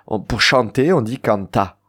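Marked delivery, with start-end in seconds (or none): 1.2-1.8 "canta" with the weight on "ta"; stress on last syllable. Shown as a demonstration. Teacher showing the infinitive of chanter, stress on "ta" in "canta". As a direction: land on the final "ta" of "canta". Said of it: "l'accent est sur le ta".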